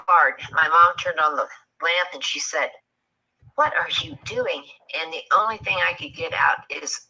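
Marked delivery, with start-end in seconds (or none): 3.6-4.6 startled mom. Retold or imitated. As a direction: imitate a startled mother's high question. Mom startled by teenager in bed.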